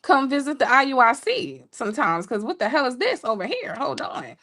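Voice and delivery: high, excited gasp of interest; hammed-up swoon at the men. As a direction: act dazzled and thrown. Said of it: "I was like".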